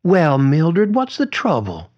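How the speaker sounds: high, lilting gentle concern. A narrator's reading. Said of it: "A gentle voice beside her".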